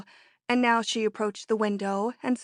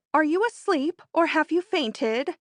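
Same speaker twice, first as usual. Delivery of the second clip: impatient; 7 semitones higher, 4 dB louder than usual. Acted. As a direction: needle her impatiently. Teasing impatient question.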